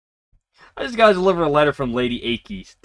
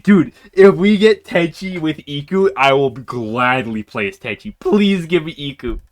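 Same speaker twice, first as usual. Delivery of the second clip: eager bargaining; 4 semitones higher, 6 dB louder than usual. Real, not acted. Bargaining for Iku.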